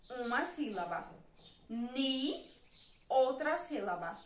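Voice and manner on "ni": "Ni" held alone with a rising end; teacher stretching "Ni" upward; syllable demonstration. Shown as a demonstration. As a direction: sound out "Ni" as one separate syllable. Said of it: "Eu vou marcar a sílaba".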